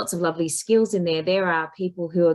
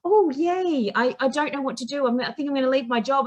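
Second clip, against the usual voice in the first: mock confused client; 7 semitones higher than usual. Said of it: "You know".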